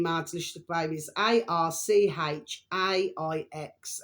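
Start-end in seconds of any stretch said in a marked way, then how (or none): 1.2-4.0 slow letter-by-letter spelling of A R C H A I X; dictating letters slowly for viewers; spelled out slowly. Shown as a demonstration. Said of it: "I'm gonna spell it for you".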